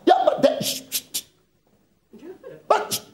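put-on high squeaky child voice cut off by shushing; mock child whine. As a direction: play the backtalking kid, then hiss sh. Child interrupted, parent shushing.

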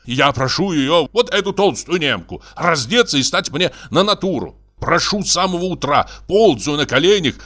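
aggrieved artist's lively complaint; exasperated painter. Acted. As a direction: plead your case as an indignant artist.

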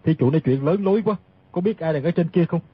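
low, understated scornful retort; cold sneer. Acted. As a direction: put him down in a low voice. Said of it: "cười nhạt nói". (giọng trầm, cười nhạt coi thường)

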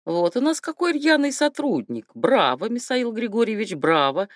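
lightly voiced lisping old general; lisping old man. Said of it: "старческий шепелявый голос".

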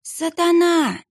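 high, drawn-out cry of horror; terrified cry. Acted. Boy sees the monk's face and cries out in horror. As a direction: cry out in sheer terror. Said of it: "вскрикнул он в ужасе".

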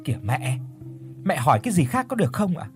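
mild snap. Acted. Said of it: "gắt nhẹ".

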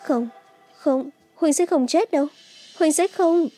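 high-pitched, desperate denial; tearful, broken pleading; crying. A narrator's reading. Bạch Hân Như refuses to accept his death, crying. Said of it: "Bạch Hân Như khóc lớn".

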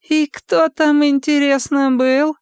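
very high, sneering squeak; squeaky mockery. A narrator's reading. Мазур пискляво издевается над Сомиком. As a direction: keep needling him, squeaky.

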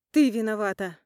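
furious accusing shout. Acted. Mother grabbing Polina by the collar, furious loud shout. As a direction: hurl the blame at her, full voice. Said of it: "кричу".

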